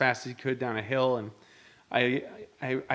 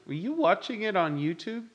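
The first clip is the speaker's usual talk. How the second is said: pointed question; 8 semitones higher than usual. Retold or imitated. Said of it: "And I was like".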